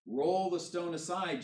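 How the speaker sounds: Jesus barks the order, slow and forceful; angry command. A narrator's reading. Jesus orders the stone rolled away, angry and slow. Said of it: "Jesus was still angry".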